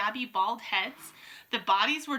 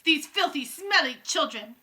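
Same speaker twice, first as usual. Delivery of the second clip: witch scream; 7 semitones higher, 8 dB louder than usual. A narrator's reading. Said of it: "she screamed".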